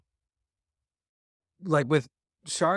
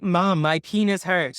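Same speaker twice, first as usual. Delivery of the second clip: put-on slow, louder reluctant kid; kid complaining to mom; 4 semitones higher, 6 dB louder, slower than usual. Boy repeating his complaint with the proper word, slow. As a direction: say it slowly like a boy obeying.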